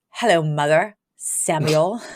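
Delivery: low, slow, frosty hello; imitating an icy, unwelcoming mother; cold greeting. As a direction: greet them coldly, dropping the pitch. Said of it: "being so cold to them".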